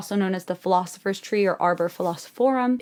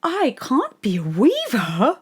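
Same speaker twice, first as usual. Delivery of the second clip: mock whiny Diana; 4 semitones higher, slower than usual. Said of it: "she's like".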